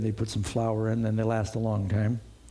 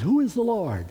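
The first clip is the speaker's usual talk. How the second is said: sharp, scornful retort, pitched higher and louder; harsh answer; 8 semitones higher, 3 dB louder than usual. Retold or imitated. Preacher voicing Nabal's scornful reply to David, harsh. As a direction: fling the question back with contempt. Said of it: "And he gives a harsh answer".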